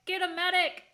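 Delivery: William Shatner. Retold or imitated. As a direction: imitate a hammy actor calling out. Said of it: "vaguely raising his voice".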